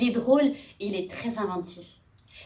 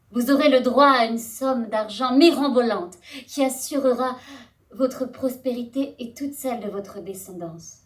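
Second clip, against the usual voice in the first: queenly address; 2 semitones lower than usual. Acted. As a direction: address the crowd like a stately queen. Voices Antropia addressing the men.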